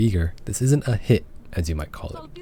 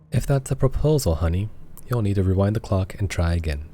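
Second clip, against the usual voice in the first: Antoinette voice. Acted. Player voicing Antoinette brushing off the proposal, a hint haughty. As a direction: play her dismissive and proud. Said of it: "I'm not gonna do this voice any longer".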